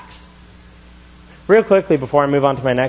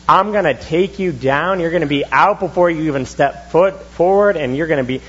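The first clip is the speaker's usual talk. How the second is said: higher, brash boast at a pro fighter; cocky trash talk; 4 semitones higher than usual. Retold or imitated. Imitating himself boasting to an MMA fighter, higher and brash. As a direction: puff up and boast like a fighter who knows nothing. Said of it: "me being like".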